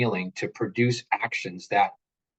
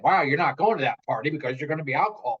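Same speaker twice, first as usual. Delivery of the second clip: mock strict parent; 3 semitones higher, faster than usual. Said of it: "Way better than what I would have said".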